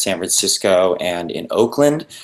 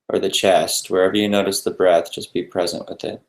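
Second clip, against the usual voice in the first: unhurried guidance with long pauses between phrases; guided meditation. Real, not acted. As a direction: lead listeners gently through breathing, leaving space after each instruction.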